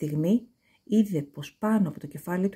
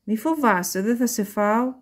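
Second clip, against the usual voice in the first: sweet voice; 3 semitones higher than usual. A narrator's reading. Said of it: "με γλυκιά φωνή".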